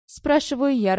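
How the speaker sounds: usual speaking voice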